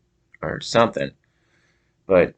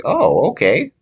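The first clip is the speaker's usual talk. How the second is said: higher, louder imitation of an accepting stranger; credulous old guy; 8 semitones higher, 5 dB louder than usual. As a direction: play an old guy taking someone's word for it. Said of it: "taking his word for it".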